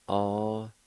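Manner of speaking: Osgoste said slowly syllable by syllable; Cherokee word. Shown as a demonstration. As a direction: sound out Osgoste carefully. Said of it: "It's pronounced like this".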